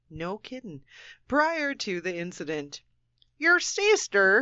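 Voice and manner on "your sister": higher-pitched, badly faked Australian accent; hammed-up Aussie, wide of the mark. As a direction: put on a terrible Australian accent. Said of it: "the worst Australian accent".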